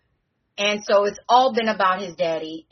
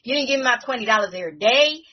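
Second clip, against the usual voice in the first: put-on higher, streetwise kid ranting about his wagon; lightly voiced indignant kid, fast and pitched up; Landon hustler voice; 6 semitones higher than usual. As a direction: complain like a hustler who wants his wagon back. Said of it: "and he's like".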